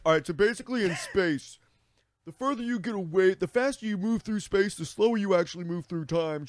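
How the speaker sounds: high, over-earnest explainer walking her through it; patient explaining. Retold or imitated. Explaining Interstellar to his confused girlfriend, high and earnest. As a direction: spell out the physics like a know-it-all. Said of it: "pause and be like".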